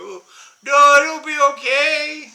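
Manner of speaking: a hint of a breezy buddy; airy brush-off. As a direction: lightly mimic the friend waving it off. Friend brushing off again.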